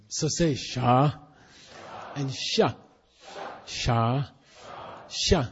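sha said on a low tone, slowly. Shown as a demonstration. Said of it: "it stands for a lower tone sha".

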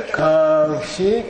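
"Kang Shik" with a rise, then a pause; pause after Kang Shik. Shown as a demonstration. Teacher showing the class where to pause, rising on "Kang Shik". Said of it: "and you would pause".

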